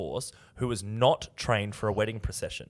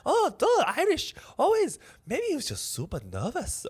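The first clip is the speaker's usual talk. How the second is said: high, lilting attempt at Irish; high-pitched, amateur Irish accent; 14 semitones higher, 3 dB louder than usual. Shown as a demonstration. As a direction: have an uncertain go at an Irish accent. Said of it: "now I'm doing Irish, I think".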